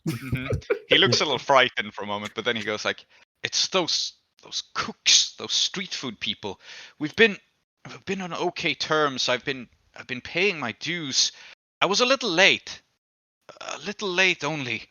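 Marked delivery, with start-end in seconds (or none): 3.4-14.8 put-on nervous drunk explaining who hurt him; lightly voiced beaten drunk. GM voices Mophis at length.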